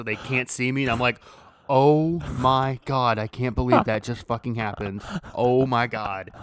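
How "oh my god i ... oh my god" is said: retold freak-out. Teller recalls hiding his face after falling, freaking out. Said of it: "freaking out".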